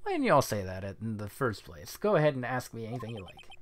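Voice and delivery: lightly voiced Southern photographer, obliging; agreeable country photographer. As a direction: welcome questions with a slight Southern twang.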